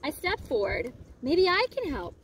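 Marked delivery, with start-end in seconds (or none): 1.2-2.1 high call over the wind; shouting over wind. Acted. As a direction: shout to be heard in the storm. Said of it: "I shouted over the wind".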